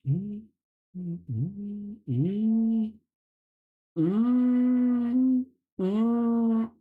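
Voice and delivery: high, drawn-out disgusted "mmm"; posed disgust without words; disgusted hum. Pretend. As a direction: groan in mock revulsion through closed lips. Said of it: "but disgusted".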